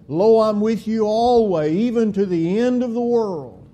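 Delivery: preacher's rising loud cry of assurance; ringing proclamation. Acted. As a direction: lift it up like a triumphant declaration. Proclaiming scripture promise.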